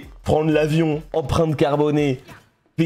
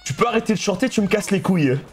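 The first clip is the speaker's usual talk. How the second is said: higher-pitched mock exasperation, breaking into laughter; blunt French version; 5 semitones higher than usual. Streamer translating friend's complaint about singing, mock exasperation. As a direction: imitate a fed-up friend, amused. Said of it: "la version française, c'est".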